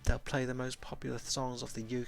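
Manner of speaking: a hint of a friendly companion; lightly voiced, explaining the bar to a guest; Sam, friendly companion.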